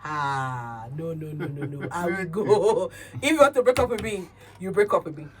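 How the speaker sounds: laughing, defiant and fast; laughing defiance. Real, not acted. Woman defies a controlling boyfriend, laughing. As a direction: laugh it off, daring him. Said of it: "defiant, laughing".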